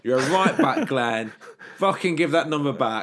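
mock rant. Mock rant at Glenn Johnson.

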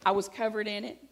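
loud, laughing as she says it. Real, not acted. Laughing, telling the congregation about the spilled milk. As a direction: laugh out the mess.

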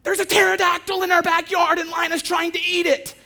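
high, loud frantic yell; retold panicked shout. Wife yelling to husband about the bird, frantic high shout. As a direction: shout it in disbelief and alarm. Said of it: "this is what she says".

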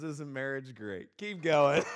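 teasing, then shouted "Keep going"; a guard waving him on with a laughing shout; a guard teases the husband, shouting him on; mock guard shout. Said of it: "That's what he said".

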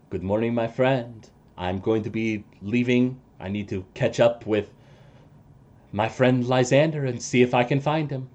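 lightly voiced calm ally taking his leave; NPC voice.

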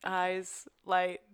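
soft, drifting tortured patient; dreamy patient. Acted. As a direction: murmur it lost in thought.

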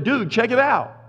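lightly voiced casual angel. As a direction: say it like a dude pointing. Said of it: "The angel of the Lord showed up and said".

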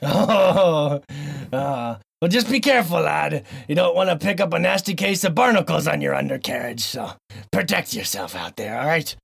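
salty pirate warning, lightly voiced; a grizzled sailor giving advice. Host in pirate voice warning his co-host about barnacles. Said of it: "this stupid voice".

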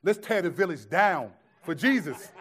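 rally the team half-joking; fired up. Retold or imitated. Young missionary rallying the team, laughing zeal. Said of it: "I was fired up".

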